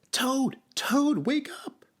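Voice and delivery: very high, urgent character voice; excited wake-up call. A narrator's reading. Frog wakes sleeping Toad, high excited calling.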